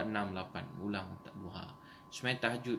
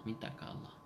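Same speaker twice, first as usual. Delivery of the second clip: whispered echo; 6 dB quieter than usual. Real, not acted. Preacher repeating softly.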